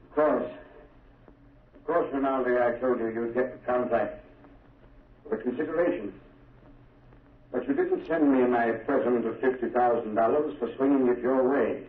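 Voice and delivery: lightly voiced senator, barely changed; a dying impersonator plays back his faint imitation of the senator; Senator Durham impersonation. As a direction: slip into a hint of the senator's manner. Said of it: "impersonate the voice of Senator Durham".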